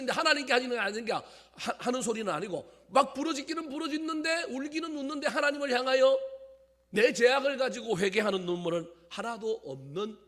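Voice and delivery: loud, high-pitched preaching at full force; prédication enflammée. Real, not acted.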